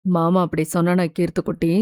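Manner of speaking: low, quick, tender uncle voice; gentle reassurance. A narrator's reading. Uncle asking his upset little niece, tenderly reassuring.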